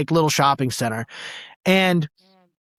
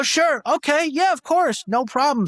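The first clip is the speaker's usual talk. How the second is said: eager agreeing; 9 semitones higher than usual. Retold or imitated. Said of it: "And I go".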